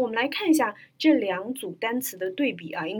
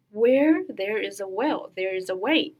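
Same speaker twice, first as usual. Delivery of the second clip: sentence demo. Shown as a demonstration. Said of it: "我们来看一下".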